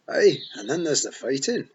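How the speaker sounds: high, loud Scots pixie, full of pride; excited Feagle boast. A narrator's reading. Rob boasts to Tiffany about being born here, loud and proud. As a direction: wee warrior proudly telling his tale.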